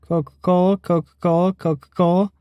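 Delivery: Coca-Cola said without closing the lips; lips not touching. Shown as a demonstration. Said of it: "Can you say Coca-Cola three times fast without your lips touching?".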